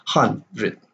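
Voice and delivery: "hundred" split, HUN stressed, -dred light; stressed first syllable. Shown as a demonstration. Teacher showing the rhythm of a sentence, stress on HUN in "hundred". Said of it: "like a iambic pattern of rhythm".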